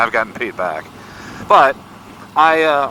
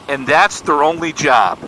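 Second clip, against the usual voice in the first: questioning, a little higher; incredulous question; 3 semitones higher, 3 dB louder than usual. Retold or imitated. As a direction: check it in mild disbelief. Young man questioning the dad.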